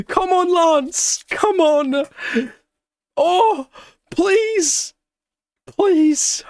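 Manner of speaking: high, loud, begging shouts; will your driver home, drawing it out; pleading cheer. Real, not acted. Urging Lance to hold podium.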